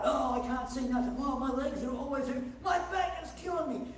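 mildly hammed-up grumbling; complaining. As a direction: moan about aches in mock complaint. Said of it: "they're complaining about how bad things are".

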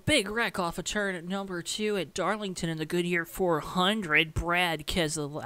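slightly goofy mock commentator; dumb put-on voice. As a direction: play at calling the wreck in a silly voice. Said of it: "I'm gonna stop doing that voice".

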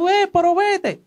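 high, drawn-out retold urging; slow, high-pitched mock yell; urgent shooing. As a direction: send them off with a rising cry.

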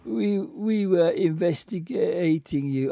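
put-on slurring, stammering drunk man; halting drunk detective voice. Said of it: "he's still doing the drunk voice".

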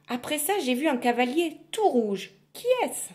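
lightly voiced shy girl; timid girl. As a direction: ask shyly. Girl questions witch.

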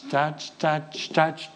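hushed rhythmic touch, touch; quiet chanted counts; soft counting touches. Shown as a demonstration. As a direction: murmur the counts softly to the beat. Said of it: "And you do touch".

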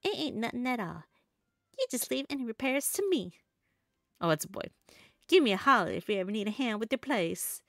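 put-on low, folksy Southern accent. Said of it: "trying my best to talk in a southern accent".

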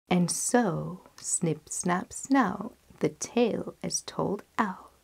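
lively storyteller's reading with measured pauses; fairy tale narration. Acted. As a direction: round off a fairy tale for children.

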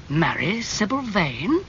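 slow, disbelieving question rising at the end; stunned echo of the news; incredulous echo. Acted. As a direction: repeat "Marry Sybil Vane?" as if it can't be true. Lord Henry echoes, incredulous.

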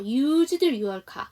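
"used your car" slow, D sliding into your; D linked into your. Shown as a demonstration. Teacher repeating "used your car" for the class. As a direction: let the D of "used" glide into "your". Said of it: "이 D 발음은 안 해도 돼요".

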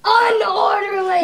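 loud, half-crying insistence; mock wail. Host wails the word at the confused guest. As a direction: whine it out.

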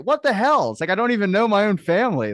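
high, loud exasperated astonishment; retold outraged disbelief. Uncle appalled by his family's eating, loud incredulity. Retold shock at nephew's answer.

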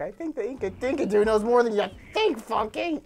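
lighter, laughing-after retelling of a cartoon line; cartoon quote. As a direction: repeat the cartoon line without shouting. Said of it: "He's like".

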